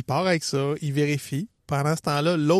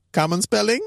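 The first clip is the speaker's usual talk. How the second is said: amused cop; 4 semitones higher than usual. Retold or imitated. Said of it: "avec un petit sourire".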